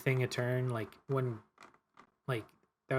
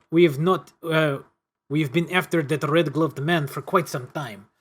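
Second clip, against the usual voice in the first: put-on French accent. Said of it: "Keep the French accent".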